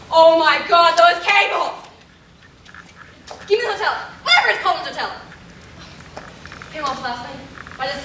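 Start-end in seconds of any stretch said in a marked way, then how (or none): 0.1-1.8 horrified realization. Acted. Lorraine realizes the cables were faked.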